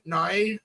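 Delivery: "Nye" with an eye vowel in place of "no"; mimicked pronunciation. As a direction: echo her "Nye" back as a question. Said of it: "what did you say, Amy? How'd you say it?".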